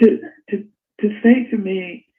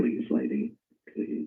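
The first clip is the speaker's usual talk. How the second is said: pleading; 9 dB quieter than usual. Retold or imitated. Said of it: "It was like pleading".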